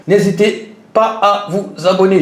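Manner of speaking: slow stiff robot voice. Pretend. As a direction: talk like a robot, slow and even. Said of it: "Je vais parler comme un robot".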